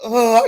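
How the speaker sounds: short mock sob caught in the throat; demonstrated choked-up crying gulp; imitated throat-locked crying gasp. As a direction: catch the breath as if choking back a cry. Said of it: "it was that throat locked up crying".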